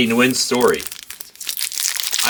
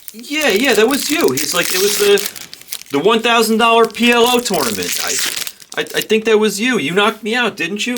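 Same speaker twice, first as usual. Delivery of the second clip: put-on high, slurry drunk guy voice, much higher; playing the tipsy guy who got knocked out; mimicking drunk Scotty; 8 semitones higher than usual. A retold drunk player pestering a poker pro, high mock voice.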